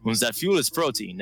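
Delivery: lightly put-on German accent; a touch of mock German accent. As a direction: give it a mild German-accented character voice. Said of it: "he has a German accent".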